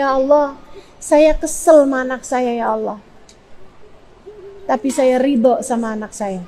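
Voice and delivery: subdued, pausing confession to God; model prayer. Shown as a demonstration. Parent of a wayward child confessing to God, subdued prayer. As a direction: let it sink to a soft plea. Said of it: "kamu doanya kayak gini".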